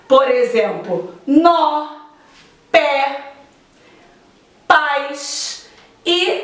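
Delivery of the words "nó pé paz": nó, pé, paz each said alone with a wide open vowel. Shown as a demonstration. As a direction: isolate nó, pé, paz, opening each vowel fully. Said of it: "a pronúncia é aberta".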